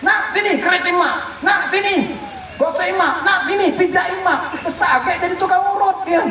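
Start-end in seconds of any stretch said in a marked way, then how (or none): 0.0-4.5 bossy mother. Retold or imitated. Mother bossing child for chores.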